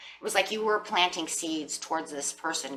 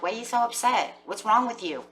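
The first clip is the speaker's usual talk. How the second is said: raised, louder scoffing at the upset; mock exasperated partner; 7 semitones higher, 6 dB louder than usual. Cold partner mocking the upset querent, scoffing loudly. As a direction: play the cold partner brushing off tears. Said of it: "they're kinda like".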